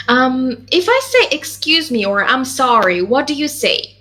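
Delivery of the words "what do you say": ordinary talk, nothing marked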